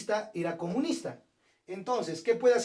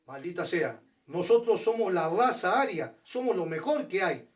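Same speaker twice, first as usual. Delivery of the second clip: quoting Hitler; 2 semitones lower, 4 dB louder than usual. Retold or imitated. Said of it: "Luego Hitler decía".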